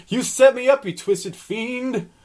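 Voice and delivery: high, slow furious accusation; angry monster. Acted. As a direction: spit out the betrayal. Roger furious at Pickle.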